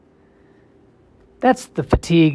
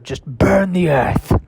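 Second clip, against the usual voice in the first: deadpan doom; 5 semitones higher, much slower than usual. Acted. Dark punchline about burning earth.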